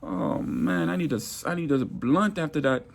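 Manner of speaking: a hint of a queasy Jamaican accent; queasy Jamaican coworker, lightly voiced. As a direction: lightly play the grossed-out Jamaican. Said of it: "the Jamaican man like".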